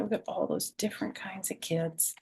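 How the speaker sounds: soft whispered aside. Real, not acted. Grandma whispering to kids about the picture, hushed. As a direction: lean in and whisper it.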